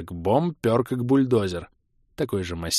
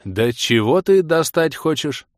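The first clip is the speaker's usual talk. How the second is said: bewildered; 5 semitones higher, 5 dB louder, slower than usual. Acted. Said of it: "Обрёл я вновь дар речи".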